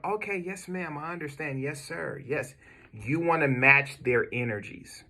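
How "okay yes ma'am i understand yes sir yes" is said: much softer, gentle and polite; calm respectful. Shown as a demonstration. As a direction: settle down and reassure an older caller. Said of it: "You want".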